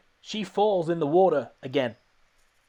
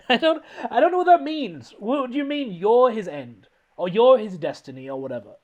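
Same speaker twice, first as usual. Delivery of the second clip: high, louder incredulous questioning; exasperated bafflement; 5 semitones higher, 5 dB louder than usual. Real, not acted. Film fan questioning a villain's fate, exasperated bafflement. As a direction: demand sense from nonsense, pitch jumping up. Ranting at baffling movie line.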